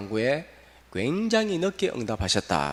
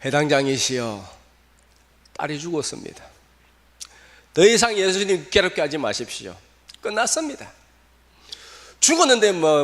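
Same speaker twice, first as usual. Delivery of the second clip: hopeless messenger; 3 semitones higher than usual. Acted. Servant announces daughter died.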